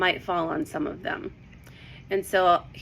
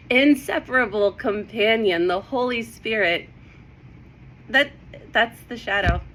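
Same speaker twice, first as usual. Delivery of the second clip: real, mild excitement with emphatic delivery; excited; 3 semitones higher, 4 dB louder than usual. Real, not acted. Sharing a Bible discovery with viewers, excited. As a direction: let real excitement lift the words. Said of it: "I'm just so excited this morning".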